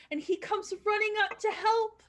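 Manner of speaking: breathless small voice, rushing in; a little mouse hurrying to help; eager young mouse. Acted.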